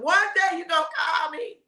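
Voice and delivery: a mother's knowing prediction; warning mother. Retold or imitated. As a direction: tell her she'll learn one day. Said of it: "I said".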